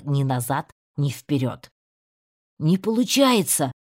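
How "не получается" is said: louder, higher cry of despair; desperate cry. A narrator's reading. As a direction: shout it out, trapped. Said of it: "крикнул я". (отчаянный крик)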